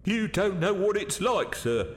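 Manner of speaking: high, anxious waiter's plea; frightened pleading. Acted. Waiter stopping gentleman from going to bar, frightened. Scared waiter holding Malcolm back.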